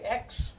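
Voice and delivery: X said as a separate syllable; syllable demonstration. Shown as a demonstration. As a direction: sound out X alone, then stop. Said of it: "you would say".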